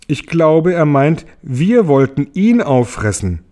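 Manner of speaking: höher und lauter, belustigt; Marienkäferstimme. Acted. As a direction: hohe Insektenstimme, amüsiert. Marienkäfer erklärt lachend James' Angst. (Marienkäfer belustigt über James' Angst, hohe Stimme)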